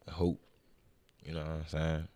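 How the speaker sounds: ordinary delivery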